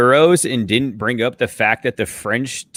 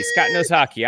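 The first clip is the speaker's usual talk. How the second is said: higher, sarcastic sing-song; mocking emphasis; 5 semitones higher than usual. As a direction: repeat it with a sarcastic lift. Mocking repeat of a teammate.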